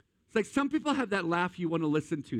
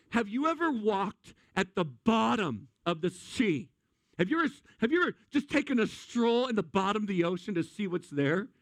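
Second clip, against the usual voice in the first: God challenging; 5 semitones higher than usual. Acted. God questions Job about the sea, grand mock voice. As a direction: pose it as a lofty dare. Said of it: "And here comes God going".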